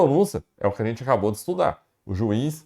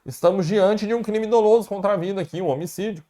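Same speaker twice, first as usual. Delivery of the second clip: prosecutor's plea; 5 semitones higher than usual. Retold or imitated. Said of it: "O Ministério Público fala".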